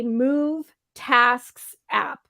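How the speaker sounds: slow tongue-twister delivery; slow, careful. Real, not acted. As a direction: space out each word carefully. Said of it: "I have to say it slowly".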